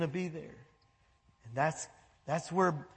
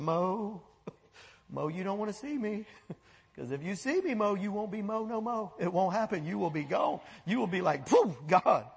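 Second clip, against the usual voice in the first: gentle God. Acted. God gently teasing Moses by name. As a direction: hush it, amused, like a fond father.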